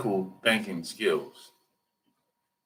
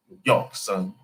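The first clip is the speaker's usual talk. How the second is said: street New York; 4 semitones lower than usual. Retold or imitated. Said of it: "street guys be like".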